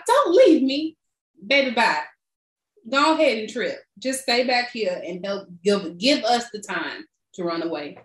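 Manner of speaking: mock pleading. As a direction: ham up a dying man begging. Imitating the bitten man pleading.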